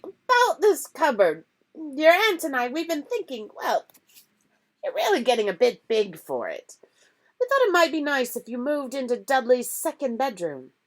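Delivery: high, loud strained niceness; forced friendliness. A narrator's reading. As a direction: fake a painful smile. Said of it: "forced his face into a smile".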